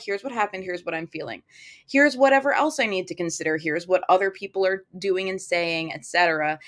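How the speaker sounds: steady yourself and just list it; calm and factual. Shown as a demonstration. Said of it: "We're like".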